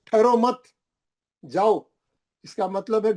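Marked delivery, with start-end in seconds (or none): 0.1-1.9 high ठहरो मत in one go, then जाओ apart; pause after मत. Shown as a demonstration. Teacher showing the wrong stop, pause after मत. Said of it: "यहाँ आके रुक गए आप मत पे".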